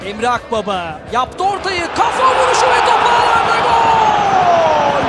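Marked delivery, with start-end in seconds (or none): 2.0-5.0 screaming football commentator. Real, not acted. Goal call in live commentary.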